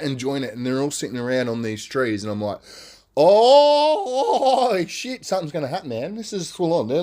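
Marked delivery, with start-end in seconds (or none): 3.2-6.9 fearful. Retold or imitated. Retold dread as troop gathers.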